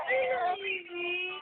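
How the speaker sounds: slow, drawn-out coo. Real, not acted. Parent comforts the baby, cooing slowly.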